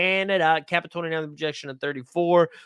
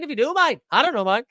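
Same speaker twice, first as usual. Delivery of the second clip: a raised, lightly put-on Australian accent; mock Australian accent; 6 semitones higher, 4 dB louder, faster than usual. Streamer joking to chat in a mock Australian accent. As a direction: toss it off in a jokey Australian accent. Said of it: "it slips into Australia".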